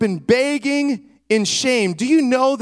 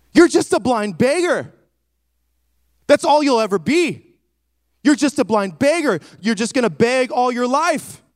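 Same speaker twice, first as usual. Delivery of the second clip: stern crowd hushing; 3 semitones higher than usual. Acted. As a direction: snap at him like a crowd telling him to shut up. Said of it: "sternly telling him to shut up".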